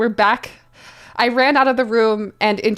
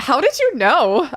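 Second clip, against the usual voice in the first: mock surprise; 5 semitones higher than usual. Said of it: "I asked in a surprised way".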